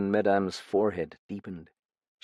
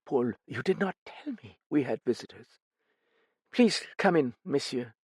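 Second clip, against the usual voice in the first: a lightly voiced tired hostess, a touch higher; weary older woman; 5 semitones higher than usual. A narrator's reading. Lightly voiced widow greeting her visitors. Madame Duchesne's voice.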